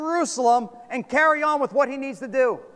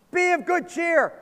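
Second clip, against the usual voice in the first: encouraging call; 6 semitones higher than usual. Retold or imitated. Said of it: "now they're talking like Jesus".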